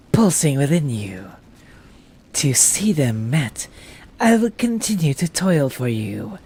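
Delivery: slow, hushed loyal servant; slow reverent minion voice; devoted servant voice. Acted. Voicing a game character's dialogue.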